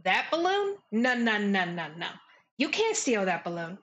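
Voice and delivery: lightly voiced sassy local warning off a thief; lively in-character warning, lightly put on; gossipy game character. A local warns players off Charm's balloon, lightly sassy character voice.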